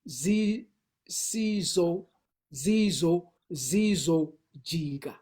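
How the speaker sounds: zizojika with a clear Z, said slowly; Xhosa Z sound. Shown as a demonstration. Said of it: "you would have a Z".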